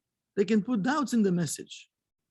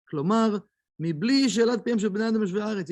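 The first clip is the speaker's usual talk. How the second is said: quick recitation of a memorised text; reading the Hebrew text; much faster than usual. Acted. Teacher reading the Kabbalah text aloud to students, fast recitation. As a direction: rattle off the Hebrew source at speed.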